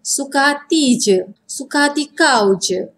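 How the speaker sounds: flat, cold fed-up delivery; serious fed-up tone. Shown as a demonstration. Teacher demonstrating a fed-up, serious tone. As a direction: say it like you're done with them. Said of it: "You listen to that intonation".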